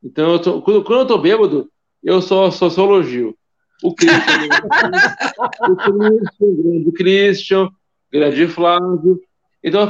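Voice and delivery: cheerful tipsy rambling. Real, not acted. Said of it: "porque eu tô muito bêbado".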